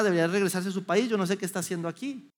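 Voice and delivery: quick, dismissive mutter about the migrant; mocking critic. Passerby judging the migrant under the bridge, quick scorn. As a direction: brush him off like a judging passerby. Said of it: "Es simplemente decir".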